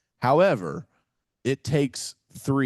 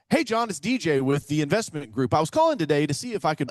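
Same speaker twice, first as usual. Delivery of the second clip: higher, pushy-pitch cold caller imitation; raised-pitch mock sales opener; typical cold caller; 5 semitones higher, 3 dB louder than usual. Shown as a demonstration. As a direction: mimic a caller launching straight into the scripted pitch. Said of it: "what most people go".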